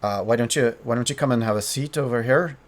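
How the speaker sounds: quick, faint Irish lilt; hint at an Irish accent, inviting them over; understated Irish-accented lord; toned-down Irish accent. Acted. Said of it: "and says".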